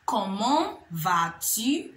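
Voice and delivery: slow, rising Comment vas-tu?; French model phrase. Shown as a demonstration. Teacher modelling Comment vas-tu? for learners, slow and rising. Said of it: "Comment vas-tu is another way to ask".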